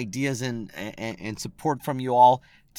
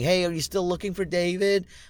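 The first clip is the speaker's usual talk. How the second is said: mock teasing voice with laughter; 6 semitones higher than usual. Retelling how three ex-cricketers waved and called out, imitating their laughing teasing. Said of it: "they waved laughing going".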